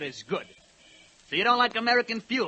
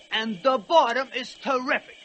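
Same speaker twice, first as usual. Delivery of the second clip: mimicking old ladies; 5 semitones higher than usual. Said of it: "old dames was complaining".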